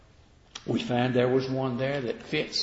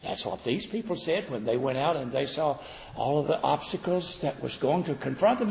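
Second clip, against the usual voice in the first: ordinary talk, nothing marked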